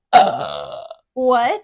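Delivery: loud, stunned Uh, what?; a jolt of disbelief; surprised. Retold or imitated. Wife retelling her shock at the closed store.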